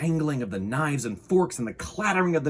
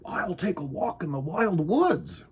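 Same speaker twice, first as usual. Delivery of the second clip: character voice; 8 semitones higher than usual. A narrator's reading.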